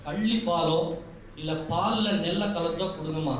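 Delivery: a hint of a tender unborn daughter, turning pleading and sorrowful; unborn girl's voice. Unborn girl pleads with mother. (கருவில் இருக்கும் பெண் குழந்தையின் கெஞ்சும் குரல்)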